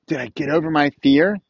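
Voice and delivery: usual speaking voice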